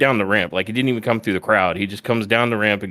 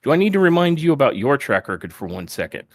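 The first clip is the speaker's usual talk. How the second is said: high-pitched indignant retort, imitated; very upset; 8 semitones higher than usual. Wrestler hitting back at being called untrustworthy, upset. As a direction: act out a wounded, disbelieving comeback. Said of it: "like, very upset".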